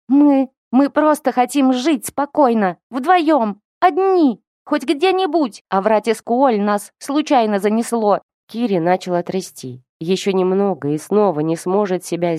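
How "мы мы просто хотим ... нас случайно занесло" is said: much higher, crying through the words. A narrator's reading. Kiri, breaking down before the old man, sobs her plea. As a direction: weep it out, begging. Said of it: "и заревела".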